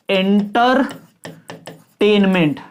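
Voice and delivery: एंटरटेनमेंट said slowly in separate chunks, pausing inside; broken into syllables. Shown as a demonstration. Teacher introducing syllables to students, word split by pauses. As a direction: break एंटरटेनमेंट apart with a long gap after एंटर. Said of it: "बोलने में कितने टुकड़ों में तोड़".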